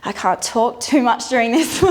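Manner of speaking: laughing through the words; giggling and out of breath; laughing while talking. Real, not acted. Instructor laughing mid-exercise.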